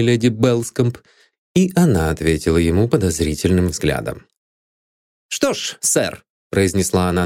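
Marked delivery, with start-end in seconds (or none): 5.3-6.2 a curt, sharp opener. A narrator's reading. Maid Anne greets the detective sharply. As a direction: clip it sharply at him. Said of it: "довольно резким голосом".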